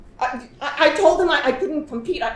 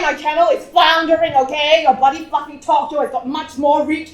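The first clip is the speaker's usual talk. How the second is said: agitated outburst; 3 semitones higher, 6 dB louder than usual. Acted. Confessing in agitation, raised voice.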